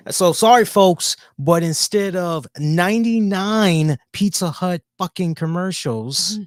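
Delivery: loud sarcastic sorry to the fans; mock apology. Host mockingly apologizing to viewers, loud sarcastic tone. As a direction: apologize with fake sincerity, loud.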